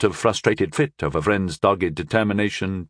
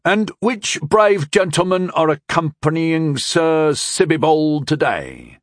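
slow, higher-pitched sweet courtesy; sweetly asked; 6 semitones higher, slower than usual. A narrator's reading. Narrator asks the boys sweetly who they accompany, sweetly. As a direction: ask with drawn-out, honeyed politeness. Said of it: "he asked sweetly".

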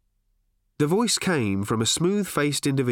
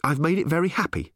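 higher, testy comeback; snapped retort; 6 semitones higher than usual. A narrator's reading. Reporter answers his boss about the robot, snappish. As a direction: snap back with raised pitch. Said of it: "snapped Ford".

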